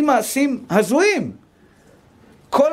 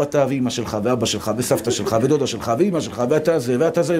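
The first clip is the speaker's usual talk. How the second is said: nagging wife; 10 semitones lower than usual. Acted. Nagging wife voiced in anecdote.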